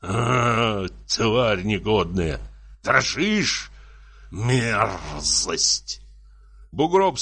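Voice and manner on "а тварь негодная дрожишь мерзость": slow, tearful threat; acted anguished anger, drawn out; muffled tearful voice. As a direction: drag out the threat as if near tears. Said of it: "заговорил он глухим, плачущим голосом".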